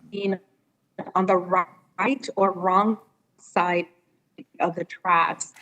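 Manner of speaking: words dropping out, slow and choppy; radio breaking up. Real, not acted. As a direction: voice cutting in and out. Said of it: "your voice is going in and out".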